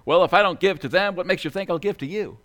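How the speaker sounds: fast, punchy comeback; quick reply. Acted. Rich man retorting to the telemarketer, quickly. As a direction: fire the punchline straight back. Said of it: "quickly that is, replied".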